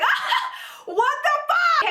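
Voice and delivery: high laugh into a shocked curse; laughing disbelief. Retold or imitated. Reacting to Carlos admitting it, laughing high disbelief. Laughing at his shameless answer.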